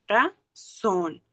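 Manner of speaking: "Razón" slowly in two separate beats; split into syllables. Shown as a demonstration. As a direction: pause between Ra and zón in "Razón". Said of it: "suena más fuerte cuando lo pronuncio".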